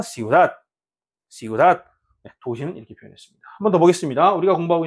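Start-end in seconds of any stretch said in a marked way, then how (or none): 0.0-1.8 "시우닷" with 닷 stressed; stress on final syllable. Shown as a demonstration. Teacher models the word for city, "시우닷" stressed on 닷. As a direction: lean on the last syllable 닷 in "시우닷". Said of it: "마지막 음절에 강세가 있는 거고".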